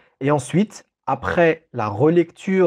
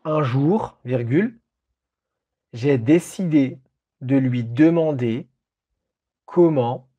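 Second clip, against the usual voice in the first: dictating. Shown as a demonstration. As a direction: read it out for a dictation. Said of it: "Je répète la phrase".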